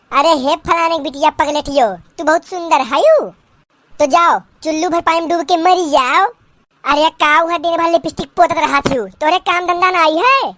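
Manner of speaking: put-on old village mother-in-law scolding in dialect; lightly voiced rustic saas, scolding; nagging mother-in-law.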